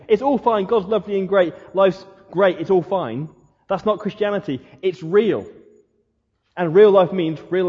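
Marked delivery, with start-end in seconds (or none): 0.1-3.3 mock cheery. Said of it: "Being Christian isn't about saying".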